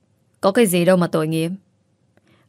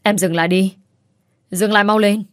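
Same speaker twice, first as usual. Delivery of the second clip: stern command; 3 dB louder than usual. Acted. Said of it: "nhìn rất hung dữ".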